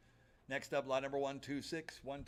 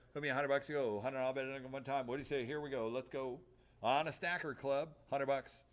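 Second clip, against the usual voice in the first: rapid auction bid chant; auctioneer. Acted. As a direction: rattle off the bids. Auctioneer calling bids.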